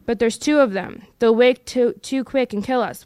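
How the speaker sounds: a mild whine, Smeagol pleading; whining Smeagol. Acted. Smeagol whining at Gollum not to risk the hobbits waking. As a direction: plead with a nervous whine, rising loud on wake. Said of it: "whined Smeagol in the last effort".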